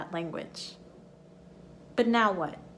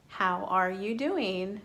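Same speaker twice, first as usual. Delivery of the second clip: drawn-out how are you doing, rising at the end; slower, rising on doing; slower than usual. Shown as a demonstration. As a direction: stretch it and lift the end. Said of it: "in natural spoken English, I just said".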